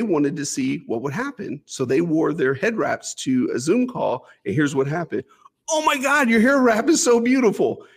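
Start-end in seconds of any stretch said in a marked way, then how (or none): 5.7-7.9 high-pitched gushing compliment, mimicked; gushing admiration. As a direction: gush in a much higher voice, imitating an admirer. Acted Zoom colleagues gushing over head wraps.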